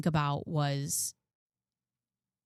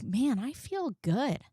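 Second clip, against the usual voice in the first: inner voice; 5 semitones higher than usual. Retold or imitated. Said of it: "There's been plenty of times where I'm like".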